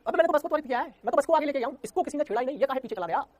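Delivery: teacher acting baffled that the bob swung back with no push; mock puzzled. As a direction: play innocent confusion, wide-eyed. Teacher plays puzzled bus passenger.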